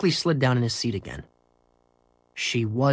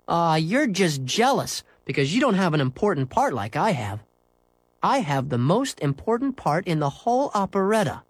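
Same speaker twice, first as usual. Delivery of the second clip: raised, self-important schoolboy voice; boastful comeback; 5 semitones higher than usual. Acted. Henry telling Scooter he's jealous, boastful. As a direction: turn the teasing round with a brag.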